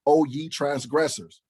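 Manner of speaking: "O ye transgressors" slow and pointed; different emphasis. Shown as a demonstration. Preacher rereading scripture at lawbreakers, slow emphatic "O ye transgressors". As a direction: draw out "O ye" and press on "transgressors". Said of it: "with a different inflection in my voice".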